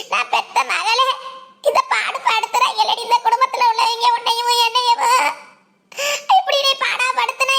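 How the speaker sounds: mother's sobbing lament; tearful lament. Acted. Weeping mother lamenting to her daughter, tearful. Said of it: "நீ அழுகாதேன்னு சொல்றல".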